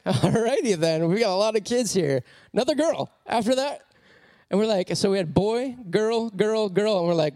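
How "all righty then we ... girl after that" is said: resigned. Retold or imitated. Parents react to third girl.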